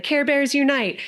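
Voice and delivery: cartoon rallying cry. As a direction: call it out like a cartoon team. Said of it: "then they would be like".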